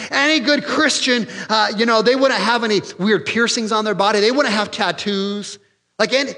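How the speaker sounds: lampoon a self-righteous churchgoer; mocking religious voice. Preacher to congregation, mocking the rule-keepers in a high voice.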